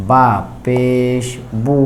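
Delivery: বু with lips fully rounded, drawn-out u. Shown as a demonstration. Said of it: "ঠোঁট গোল হয়ে যাবে".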